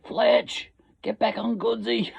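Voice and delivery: high, loud yell across a footy field; shouted on-field urging. Acted. Player yelling at a teammate to chase Goodsy, shouted. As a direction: holler it to a teammate far away. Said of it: "the way ... that we didn't like Goodsy was in this way".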